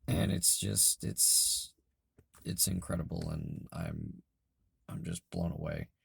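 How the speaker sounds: hoarse, fading voice; losing voice. Real, not acted. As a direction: voice giving out, raspy. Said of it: "I'm sorry I'm losing my voice".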